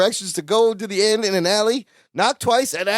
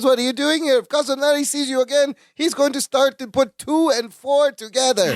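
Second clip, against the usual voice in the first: lightly voiced Balky; 5 semitones higher than usual. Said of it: "Balky goes".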